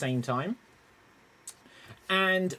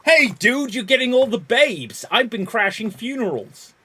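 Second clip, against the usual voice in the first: loud, high dude voice; party bro shouting to his friend; loud bro greeting; 6 semitones higher, 8 dB louder than usual. Acted. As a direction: hail your buddy across the party. Calling to a friend in scene.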